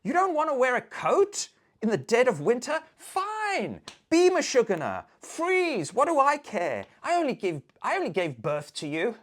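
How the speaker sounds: high, loud, guilt-tripping nag; Jewish mother. Retold or imitated. A Jewish mother nagging her child about a coat, high and loud. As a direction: scold like a martyred mother. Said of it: "Jewish mother deployment".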